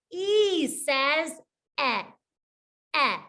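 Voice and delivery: "eh" as a short e vowel sound, mouth a little closed. Shown as a demonstration. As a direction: say "eh" short, tongue against teeth.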